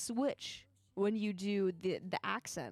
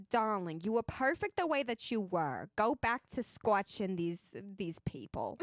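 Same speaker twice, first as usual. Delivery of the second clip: put-on New Zealand accent; 4 semitones lower than usual. Clouds speaking in her New Zealand accent attempt. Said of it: "New Zealand".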